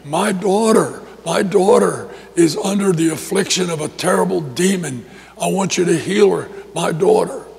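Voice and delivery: pleading yell, held back; a touch of urgent yelling; mild mock yell. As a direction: imitate a mother calling out for help. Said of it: "And she's yelling".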